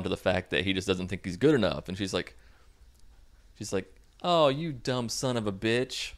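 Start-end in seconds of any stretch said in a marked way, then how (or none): 4.2-6.1 slow, higher-pitched cooing imitation; mock sweet. Girlfriend getting all sweet, slow mock-tender coo. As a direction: coo it slowly at him. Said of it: "she gets all sweet".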